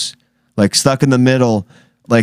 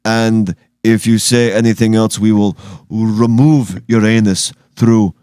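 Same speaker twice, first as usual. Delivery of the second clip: a hint of a foreign spokesman, deadpan; mock Taliban accent. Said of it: "You're, you're the impressionist".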